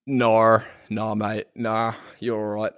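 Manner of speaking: imitated Australian "nar", easygoing; Australian accent. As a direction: echo a laid-back Australian "nah". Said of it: "As they say in Australia".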